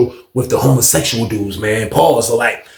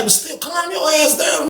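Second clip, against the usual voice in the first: retold telling-off; 12 semitones higher, 7 dB quieter, slower than usual. Telling off the taller man.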